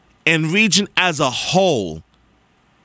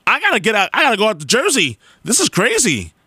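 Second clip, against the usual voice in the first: retold exasperation; 5 semitones higher, faster than usual. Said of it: "I said".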